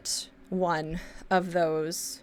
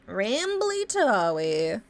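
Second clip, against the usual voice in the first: playful self-announcement; much slower than usual. Pretend. Announces self as a silly persona.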